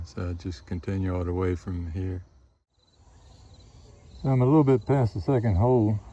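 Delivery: muffled behind a respirator mask; talking through a respirator. Real, not acted. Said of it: "hear me with my respirator on".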